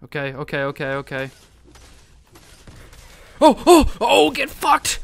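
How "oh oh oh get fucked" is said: loud, high, drawn-out gloat; triumphant taunting yell. Real, not acted. Gamer gloating over a kill, triumphant yell. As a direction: crow loudly over the kill. Taunting a player just killed.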